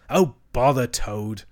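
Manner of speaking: slow, irritated brush-off with mild bite; savage dismissal. Acted. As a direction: dismiss the friend crossly. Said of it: "said the rat savagely".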